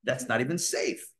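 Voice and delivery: the inner Pharaoh nervously holding you back; worried inner Pharaoh. Retold or imitated. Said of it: "I'm like".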